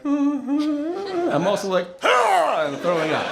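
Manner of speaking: high, slow words broken by laughter; can't get it out for laughing; laughing through it. Real, not acted. Telling the audience about throwing up while laughing.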